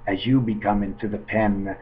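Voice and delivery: a hint of stage hypnotist; mock hypnotist. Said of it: "mock hypnotist with penguin".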